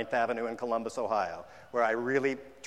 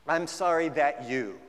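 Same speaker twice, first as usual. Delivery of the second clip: mock non-apology; slower than usual. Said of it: "Look out for that".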